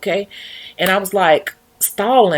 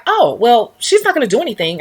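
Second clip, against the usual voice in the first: quick dismissive owner; 4 semitones higher, 3 dB louder than usual. Retold or imitated.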